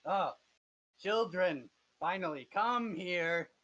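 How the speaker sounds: put-on villain welcoming children. Game master's villain finally notices the party, grandly welcoming. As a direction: grandly beckon them in.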